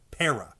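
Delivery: Para, PA stressed; Para, first syllable accented. Shown as a demonstration. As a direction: lean on the PA in Para. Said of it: "accenting the first syllable and saying the second syllable normal".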